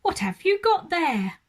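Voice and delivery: put-on loud, high, stern old housekeeper; fierce housekeeper. A narrator's reading. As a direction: demand it sharply. Fierce housekeeper Mrs Bird.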